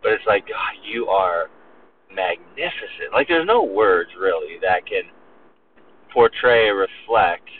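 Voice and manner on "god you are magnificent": slow, softening reverent praise; hushed awe. Acted. Preacher voicing a worshipper overwhelmed by God, hushed awe.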